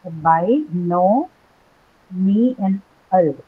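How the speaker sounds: split into syllables. Shown as a demonstration. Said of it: "tell me what are the four syllables".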